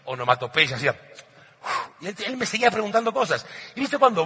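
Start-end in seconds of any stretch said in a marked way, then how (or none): 0.9-1.9 whispered bored sigh. Retold or imitated. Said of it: "yo hice todo tipo de sonidos".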